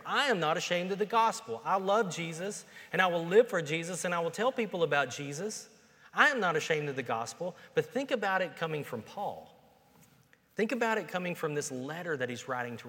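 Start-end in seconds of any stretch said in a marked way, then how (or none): 0.0-7.6 louder, higher, proud declaration; bold declaration. Pretend. Pastor voicing the congregation declaring faith boldly, loud and high. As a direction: proclaim it like you're standing up in church. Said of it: "we could all stand in here and go".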